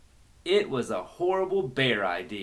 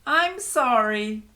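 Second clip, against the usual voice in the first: apology; 10 semitones higher, slower than usual. Acted. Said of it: "the girl said".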